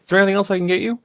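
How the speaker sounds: high, bright receptionist voice; sweet, high-pitched clerk asking politely; front desk lady. Acted. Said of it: "the front desk lady, uh, asks".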